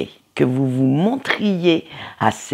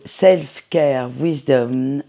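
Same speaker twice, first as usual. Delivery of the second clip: deck name said slowly in halting English; clumsy English pronunciation from a French speaker; French-accented English; much slower than usual. Real, not acted. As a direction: try the English title, heavy French accent. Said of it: "mon accent anglais".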